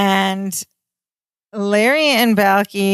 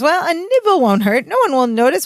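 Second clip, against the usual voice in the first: Larry voice; 10 semitones higher than usual. Retold or imitated. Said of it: "And Larry goes".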